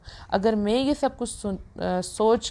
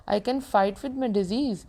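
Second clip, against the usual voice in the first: very slow, firm resolve; stubbornly slow self-affirmation; much slower than usual. Shown as a demonstration. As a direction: drag each word out with determination. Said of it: "اپنے آپ سے بولا".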